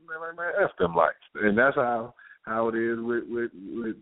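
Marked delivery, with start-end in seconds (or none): 0.1-1.2 relaxed stoner. Retold or imitated. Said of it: "take one hit of the weed".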